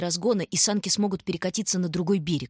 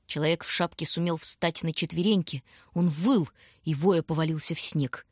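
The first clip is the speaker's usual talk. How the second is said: ordinary delivery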